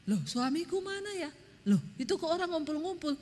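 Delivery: a hint of a wife's alarm as she looks around; anxious wife. Wife back from the toilet, can't find her husband, a touch anxious.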